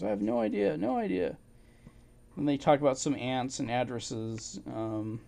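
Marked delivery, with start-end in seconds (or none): 0.0-1.4 imitating helpless man. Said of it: "He goes".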